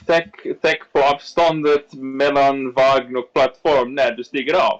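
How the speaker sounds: slow metro announcer voice; muffled subway announcement. Retold or imitated. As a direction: drawl it like a train announcement. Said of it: "And then she's like".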